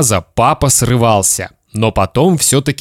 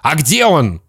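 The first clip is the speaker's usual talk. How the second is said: father's shout; 5 semitones higher than usual. Acted. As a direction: press the boy urgently. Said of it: "закричал папа".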